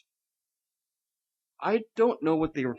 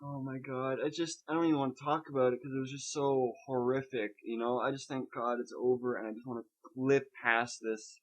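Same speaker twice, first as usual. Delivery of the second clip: soft, drained delivery; subdued, struggling to talk; 2 semitones lower, 8 dB quieter than usual. Real, not acted. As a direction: speak softly, as if it is hard to talk about. Recounting a horrific experience, struggling.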